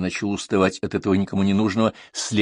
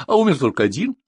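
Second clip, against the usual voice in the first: high, mildly agitated protest; nervous; 8 semitones higher, 4 dB louder than usual. A narrator's reading. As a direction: argue back with a touch of nerves. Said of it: "разнервничался официант". (нервно, взволнованно)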